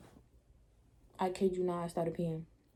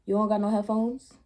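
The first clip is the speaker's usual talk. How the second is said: mock pleading argument; 4 dB louder than usual. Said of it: "So I kept arguing with the lady".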